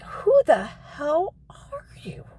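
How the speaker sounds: slow, hushed incredulous whisper; stunned whisper. Retold or imitated. Speaker stunned by the old man, slow whisper. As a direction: ask in disbelief.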